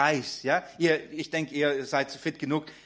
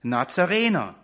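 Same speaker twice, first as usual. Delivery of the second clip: possessed man crying out; 3 semitones higher, 4 dB louder than usual. Acted. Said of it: "Und er schrie auf und sagte".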